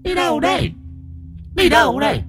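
high eerie mocking ghost voice; ghost woman voice. A narrator's reading. Ghost woman mocks the fleeing old man, high and eerie. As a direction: tease him in a high ghostly voice. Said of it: "nhìn lão cười khanh khách".

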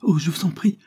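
high, rising, desperate plea; frightened mother pleading for her son. A narrator's reading. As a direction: beg her to stop. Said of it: "sollicitait Isabelle".

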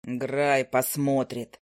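a grumpy bird drawling down low; low owl familiar. Acted.

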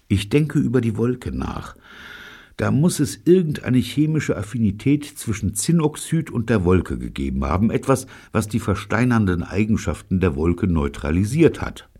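high-pitched, eager theorist; musing Neil. A narrator's reading. Neil theorising about tin oxide and the cloud, high and eager.

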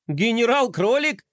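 high, amused question; giggling. Acted. Skater mocking the general's name, giggling. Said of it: "хихикнул Флай".

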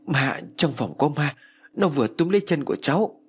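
put-on a girl telling her uncle about the ghost; terrified. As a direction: tell it shaking with fear.

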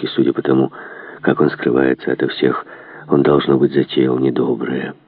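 low-voiced huntsman, wary; степенный лейб-егерь. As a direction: report suspicions in a deep, even voice. (низкий, настороженный голос егеря)

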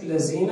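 "الذين" with a z, "allazina"; wrong zay. Shown as a demonstration. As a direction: put a z in place of the th in الذين. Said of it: "وليست الزاي".

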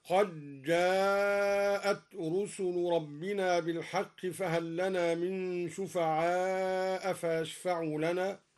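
slow recitation, doubled j and very long aa in قد جاءت; dal merged into jeem. Shown as a demonstration. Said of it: "وكذا قوله تعالى".

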